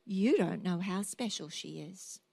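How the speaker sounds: a touch of stern reproof; stern retold reply. Doctor correcting a worried mother, mildly stern. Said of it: "looked at me quite sternly and he said".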